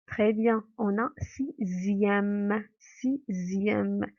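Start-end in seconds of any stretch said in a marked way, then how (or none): 1.2-2.6 "sixième" slowly, with a drawn-out z sound; sound demonstration. Shown as a demonstration. Teacher showing pupils the Z sound, "sixième" slowed and stretched. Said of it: "On entend le son Z". 2.8-4.1 "Sixième" slowly, with a clear z in the middle; sound demonstration. Shown as a demonstration. Teacher letting pupils hear the Z sound, "Sixième" drawn out. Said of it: "On entend le son Z".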